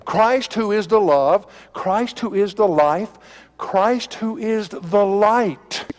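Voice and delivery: slow, weighty pulpit delivery; emphatic preaching. Acted. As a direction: preach it word by word, slowly.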